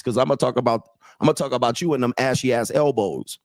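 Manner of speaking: normal talking voice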